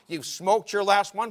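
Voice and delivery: slow, high, very loud declaration; forceful pronouncement. Retold or imitated. God repeating the verdict to Paul, slow and loud. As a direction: thunder it out slowly.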